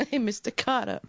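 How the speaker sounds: lightly voiced Vinnie Barbarino catchphrase; a hint of a cocky Brooklyn teen; Barbarino impression. Co-host tosses off a light Vinnie Barbarino line, mildly voiced. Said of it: "Vinnie Barbarino".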